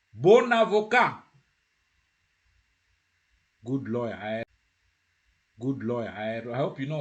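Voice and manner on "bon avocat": BON AVOCAT slow, high and loud, linking n; liaison. Shown as a demonstration. Teacher presents BON AVOCAT to learners, loud liaison. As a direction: project BON AVOCAT, N carried into AVOCAT. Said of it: "you have to join".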